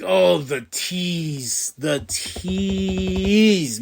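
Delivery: teased fan. Retold or imitated. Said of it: "And I'm like".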